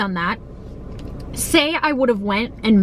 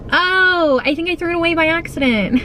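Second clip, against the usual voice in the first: airhead landlord; 8 semitones higher than usual. Retold or imitated. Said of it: "she's like".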